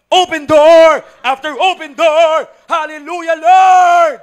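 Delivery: showy, drawn-out loud high belt; sadyang nilakasan. Acted. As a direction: belt it out on purpose to look devout. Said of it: "lalaksan ko po talaga yung boses ko on purpose". (sadyang malakas na pag-awit)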